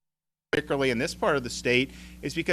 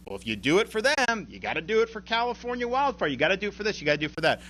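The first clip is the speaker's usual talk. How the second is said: lightly voiced fussy staffer, pitched higher; imitating a staffer; 7 semitones higher, faster than usual. Governor mimics a staffer weighing every disaster request, lightly voiced. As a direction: play the cautious budget staffer listing objections, higher. Voicing a hypothetical budget staffer.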